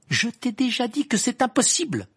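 high, loud furious refusal; angry. A narrator's reading. Hermione refusing Ron once and for all, angry. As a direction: lose patience and raise your voice. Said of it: "répondit Hermione avec colère".

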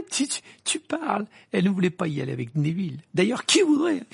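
high, loud, laugh breaking into the words; laughing mockery. Ron mocking the idea of going with Neville, laughing. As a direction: splutter it through laughter.

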